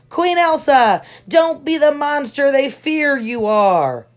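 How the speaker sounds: high, loud calling out; cried out. A narrator's reading. Hans calls out to Queen Elsa, loud and high. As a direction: call out to the queen, pleading hard. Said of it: "Hans cried out to her".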